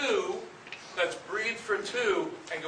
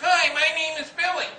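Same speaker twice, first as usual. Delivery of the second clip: much higher, louder strained throaty demo; bad guttural tone; 10 semitones higher, 7 dB louder than usual. Shown as a demonstration. Director demonstrating to students how not to sound, strained and guttural. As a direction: show the constricted throat sound. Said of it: "you shouldn't be sounding like this".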